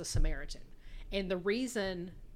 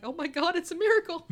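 hammed-up surprise, louder and higher as it goes; mock amazed preacher; 8 semitones higher, 8 dB louder than usual. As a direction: play the caught preacher faking a miracle. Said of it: "He's like".

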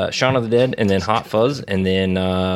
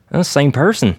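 laughing through a quote; 5 semitones higher, 3 dB louder than usual. Retold or imitated. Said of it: "And he goes".

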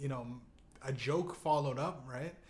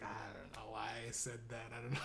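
quiet muttered regret; 7 semitones lower, 12 dB quieter, faster than usual. Retold or imitated. George's quiet embarrassed confession.

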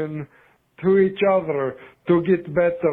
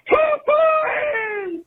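very high shouted "hooey"; mock traffic shout. Caller acting out yelling at another driver, very high. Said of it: "in traffic, you're like".

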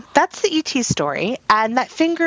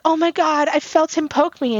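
mild mock scream; 6 semitones higher than usual. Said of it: "And I would scream".

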